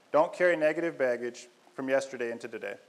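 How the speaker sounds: usual speaking voice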